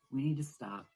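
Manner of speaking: loud hammed-up emergency call; booming, playfully urgent announcement; mock alarm. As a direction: sound the alarm at full voice. Mock alarm for Code Red.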